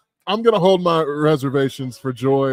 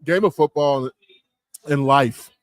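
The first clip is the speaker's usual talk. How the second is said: put-on drunk uncle; slower than usual. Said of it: "I sound like a drunk uncle".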